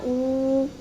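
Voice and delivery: ऊ held long and level; drawn-out ऊ. Shown as a demonstration. Teacher shows children the changed matra sound, drawn-out ऊ. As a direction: sustain ऊ as one steady vowel. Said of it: "change हो जाती है ना".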